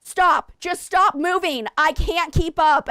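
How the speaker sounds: high, loud, pleading yell; retold yell. Pregnant wife yelling at husband uphill, loud pleading. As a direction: beg him to stop, loud. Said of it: "And I said in English".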